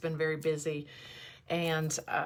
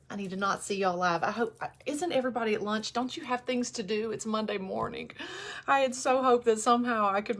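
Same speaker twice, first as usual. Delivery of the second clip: pitched higher, voice close to breaking; fighting back tears; 5 semitones higher than usual. Real, not acted. Begging viewers not to join live, fighting back tears. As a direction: plead with them, barely holding it together. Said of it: "See, it's happening".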